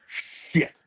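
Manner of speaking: hushed, breathy swear under the breath; a whispered retold curse. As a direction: drop to a whisper of dismay. Friend reacts to bad news.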